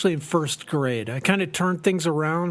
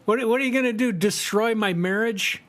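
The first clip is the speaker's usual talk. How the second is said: defiant taunt; 4 semitones higher than usual. Retold or imitated. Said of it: "I'm like".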